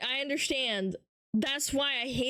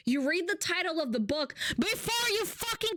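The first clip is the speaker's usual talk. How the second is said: raised, exasperated insistence; fed-up exclamation; 6 semitones higher than usual. Real, not acted. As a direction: insist in frustration. Exasperated point.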